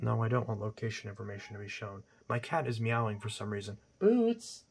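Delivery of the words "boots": calling the cat sharply, high; sharp high call across the room; loud sharp voice. Real, not acted.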